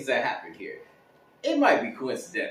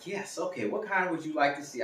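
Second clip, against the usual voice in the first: polite leasing agent; 2 semitones higher, 5 dB quieter than usual. Acted. Leasing agent answering a caller, polite. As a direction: imitate a courteous agent on the phone.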